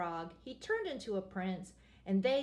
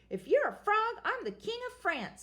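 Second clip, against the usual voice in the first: mocking witch; 11 semitones higher, 5 dB louder than usual.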